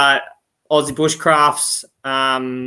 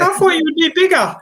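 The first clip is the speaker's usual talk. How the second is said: laughing quote; 14 semitones higher, 4 dB louder, faster than usual. Retold or imitated. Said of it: "She's like".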